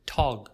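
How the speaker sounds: tog said alone, slow and clear; tog sound. Shown as a demonstration. Teacher isolating a syllable for students, slow. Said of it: "we stress the second syllable".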